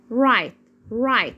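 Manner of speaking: "رايت" with the gh left silent. Shown as a demonstration. Teacher shows silent letters to learners, "رايت" without gh. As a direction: model "رايت", no g or h before the t. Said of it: "صامتة ما بنطقهاش".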